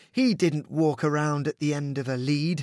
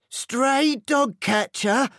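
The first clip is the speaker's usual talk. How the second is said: higher, slow doubting question; disbelieving; 9 semitones higher, slower than usual. A narrator's reading. Hot Dog doubts Pooch's warning, higher slow disbelief. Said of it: "said Hot Dog".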